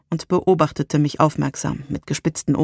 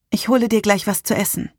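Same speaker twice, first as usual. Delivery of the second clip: worried; 5 semitones higher than usual. Acted. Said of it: "warf mir einen besorgten Blick zu".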